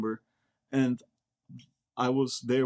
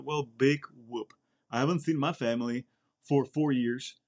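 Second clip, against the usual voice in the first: dry retort. Retold or imitated. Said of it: "I was like".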